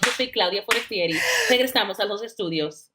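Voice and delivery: a light TV field-report read; news reporter sign-off. Shown as a demonstration. Guest redoes her Telemundo sign-off, newscaster read. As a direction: slip into Spanish newscaster mode. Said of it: "That's why my Spanish is all crazy".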